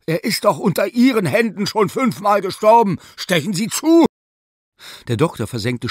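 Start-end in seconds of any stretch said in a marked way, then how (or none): 0.1-4.1 furious roar. Acted. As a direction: bellow at him in outrage. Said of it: "brüllte aufgebracht der Professor".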